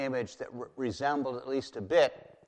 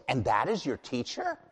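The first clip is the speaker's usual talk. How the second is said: mocking taunt, higher and louder; God taunting idol-makers, scornful and raised; 6 semitones higher, 3 dB louder than usual. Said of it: "you hear the mocking in his voice".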